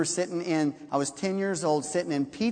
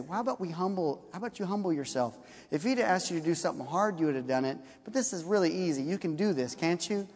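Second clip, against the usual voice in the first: softer and fast, gently talking him round; hushed, quick persuasion; soft coaxing; 5 dB quieter, faster than usual. Retold or imitated. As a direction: servants quietly reasoning with an angry master. Servants gently coaxing Naaman.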